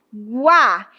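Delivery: "Guá" starting weak and growing strong on the á; "Guá" with the weight on the final vowel; weak-to-strong diphthong. Shown as a demonstration. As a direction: glide from a light u into a strong á in "Guá". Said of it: "começo com um som fraco".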